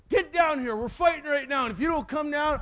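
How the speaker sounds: high-pitched retold ultimatum; mock angry threat. Bully threatens the boys in the tree, mock angry. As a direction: imitate a bully laying down the law. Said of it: "He got really mad".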